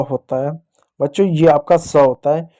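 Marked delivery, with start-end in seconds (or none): 1.8-2.0 स as a plain "s" sound, no h; pronounced sa. Shown as a demonstration. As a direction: say स with a clear "s". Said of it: "इसको स पढ़ते हैं". (स का साफ़ दंत्य उच्चारण)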